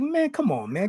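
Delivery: high-pitched protest without extra volume; retold exasperation. Wrestler retelling his reply to opponent's excuse, exasperated.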